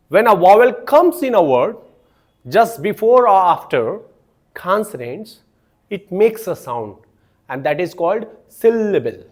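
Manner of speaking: very slow, phrase by phrase; slow dictation. Shown as a demonstration. Teacher reading definition to students, slow dictation pace. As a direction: dictate it so students can write. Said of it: "teacher dictating definition in English".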